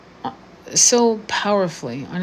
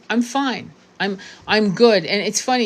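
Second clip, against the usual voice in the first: ordinary delivery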